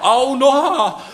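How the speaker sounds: very high, loud storybook howl; pained yell. A narrator's reading. Bird Noha is bitten by a snake, pained yell. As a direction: yelp it high and held, acted pain. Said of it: "zařval bolestí pták Noha".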